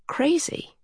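breathy near-whisper on one word; hushed aside. A narrator's reading. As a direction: let the word drop into a whisper. Narrator lands on the key word.

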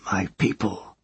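quiet, hushed reply; soft child voice. Acted. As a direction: answer softly and simply. Child answers softly.

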